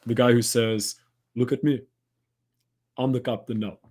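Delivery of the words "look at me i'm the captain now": lightly put-on movie pirate accent; a hint of a pirate accent, poorly done; terrible pirate-captain accent. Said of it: "That's my terrible accent".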